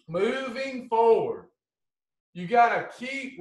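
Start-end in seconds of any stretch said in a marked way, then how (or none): 0.1-1.5 slow emphasis. Real, not acted. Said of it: "slow emphatic heading".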